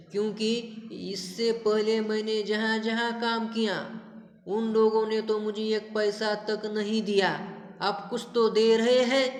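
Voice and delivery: a touch of fear as the maid explains herself; frightened maid. Retold or imitated. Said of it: "डर जाती है, भयभीत होती है".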